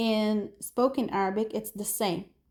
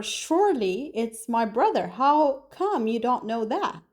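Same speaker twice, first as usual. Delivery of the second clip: "Surely" pitched up, insistent; emphatic. Shown as a demonstration. Teacher voicing disbelief over a brother, emphatic. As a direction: lean on "Surely", then a slow "How come". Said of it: "shows more emotions".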